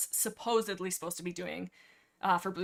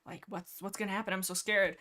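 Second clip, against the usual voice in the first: mock scared. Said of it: "Ravenpaw's all scared".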